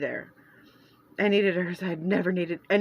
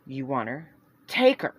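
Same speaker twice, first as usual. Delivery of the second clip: spat; 4 semitones lower, 4 dB louder than usual. Acted. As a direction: fling the words and leave. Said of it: "Celeste spat as she walked away".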